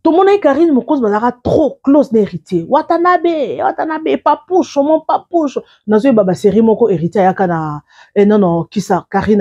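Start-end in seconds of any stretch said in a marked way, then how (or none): 2.7-5.6 fond pet name. Retold or imitated. Mimics Karine's fond calling.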